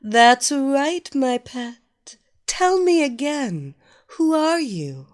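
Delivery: loud, bossy mistress orders; commanding dominatrix. Acted. Evelina demands again.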